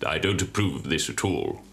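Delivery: a hint of a deep husky mother. A narrator's reading. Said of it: "women had very sexy, masculine, husky voices".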